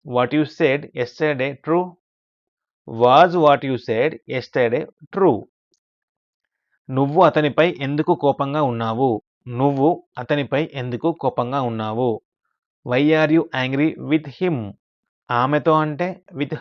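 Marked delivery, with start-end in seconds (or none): 0.1-5.4 slow model reading. Shown as a demonstration. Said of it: "teacher models English sentence slowly". 12.9-14.6 slow model reading. Shown as a demonstration. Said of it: "teacher models English sentence slowly".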